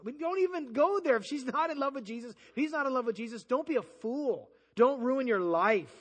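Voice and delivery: a preacher raising his voice at the congregation; forceful warning. Real, not acted. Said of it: "preacher warning".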